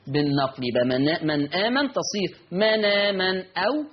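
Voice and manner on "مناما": "مناما" as "manaaman", short lengthening of the aa; shortest madd. Shown as a demonstration. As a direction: link without hamza, holding the aa of "مناما" only briefly. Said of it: "نقل مع ثلاثة البدل". ("مناما" بنقل الهمزة وقصر مد البدل)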